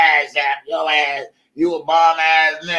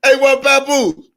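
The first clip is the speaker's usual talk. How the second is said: mock lady; 9 semitones higher, 4 dB louder than usual. Repeated mock quote.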